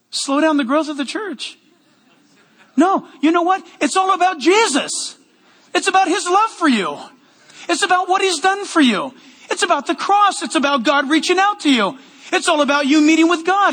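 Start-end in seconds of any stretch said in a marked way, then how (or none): 2.7-13.7 higher, building preacher's fervor; excited preaching. Real, not acted. Pastor preaching to the church, excited and rising. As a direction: lift every line up with passion. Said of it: "am I yelling?".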